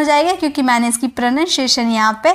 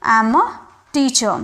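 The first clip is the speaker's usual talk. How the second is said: slow example; much slower than usual. Shown as a demonstration. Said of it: "मैं बोल रही हूँ".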